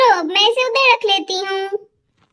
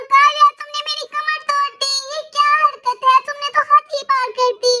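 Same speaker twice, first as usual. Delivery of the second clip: higher-pitched scolding of the daughter; mother telling off her daughter, higher and sharp; angry scolding mother; 4 semitones higher than usual. Acted. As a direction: scold the child for hurting you. Mother scolds after fall.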